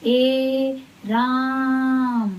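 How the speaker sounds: long drawn-out call "ए Ram", the ए stretched far; calling out a name. Shown as a demonstration. Teacher demonstrating a village call, drawn out. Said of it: "जैसे हमने कहा".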